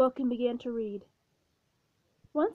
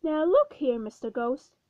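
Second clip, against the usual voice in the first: firm retort; 5 dB louder than usual. Acted. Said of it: "snapped back".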